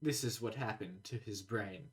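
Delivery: slow, soft medical narrator voice; ominous documentary narrator, slowed down; Chubby Emu parody. Pretend.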